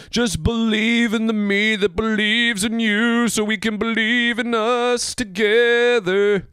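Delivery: high, slow mock-heroic declaration; shonen hero speech. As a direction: belt out a corny friendship pep talk. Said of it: "these shonen just like".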